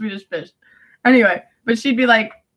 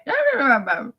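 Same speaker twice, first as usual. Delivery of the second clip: Giuseppe; 3 dB quieter than usual. Retold or imitated. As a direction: answer with mouth sounds instead of words. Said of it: "He would just make sounds with his mouth".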